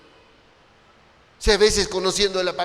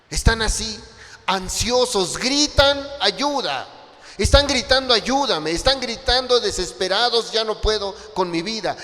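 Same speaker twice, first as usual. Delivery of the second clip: raised, fervent preaching voice; preaching at full force; 2 semitones higher than usual. Acted. Pastor urging his congregation about the harvest, fervent preaching.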